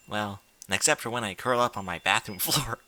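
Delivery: giggles break into the line; losing it halfway through reading; laughing while reading. Real, not acted. Reading aloud, cracking up at the bathroom line.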